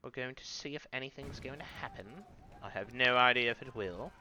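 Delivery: mock posh British host voice; fake British accent. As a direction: put on a hammy British accent to open the show. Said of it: "I'm affecting a fake British accent".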